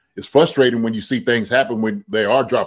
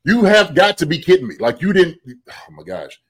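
exasperated disbelief. Retold or imitated. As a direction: throw up your hands at the TV. Retelling own frustrated reaction.

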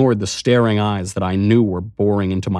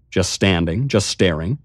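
ordinary delivery, nothing marked

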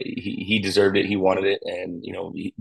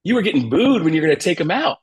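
higher, louder voice of his wife; wife telling husband about the crowd, in a higher put-on voice; imitating his wife; 8 semitones higher, 5 dB louder than usual. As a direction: mimic the wife reporting the boos, amused. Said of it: "She goes".

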